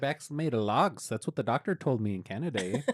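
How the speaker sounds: lightly hammed-up Canadian with an "eh" on the end; Canadian accent. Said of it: "You just wanna do the accent".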